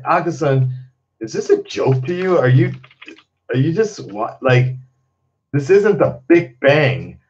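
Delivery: a hint of a nagging viewer scolding him; mock scolding commenter. A commenter scolds the streamer, mock scolding. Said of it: "they're like".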